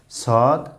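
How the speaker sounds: সদ with a whistling s, drawn out; whistled sibilant. Shown as a demonstration. Teacher models the letter for a pupil, whistled sibilant. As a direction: say সদ with a whistle in the opening consonant. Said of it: "শেষ দিয়ে পড়তে হয়".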